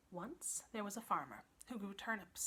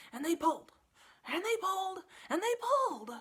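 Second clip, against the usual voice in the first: rising higher and louder each pull; building strain; 10 semitones higher, 8 dB louder than usual. A narrator's reading. Narrator building the pulling, much louder at the end. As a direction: heave harder each time.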